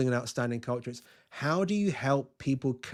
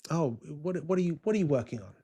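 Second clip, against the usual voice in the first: put-on slightly raised, old English gentleman's accent; old-time English accent, lightly imitated. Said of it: "in his best old English accent".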